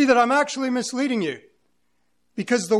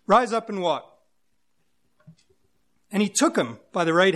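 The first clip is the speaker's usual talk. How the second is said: measured Bible reading with deliberate phrase breaks; formal read-aloud, pausing between phrases; scripture reading. Acted. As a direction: read the passage aloud to a congregation. Reads scripture aloud to congregation.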